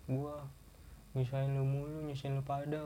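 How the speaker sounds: lightly voiced crying friend, apologetic; friend's tearful words. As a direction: mumble it like someone ashamed and crying.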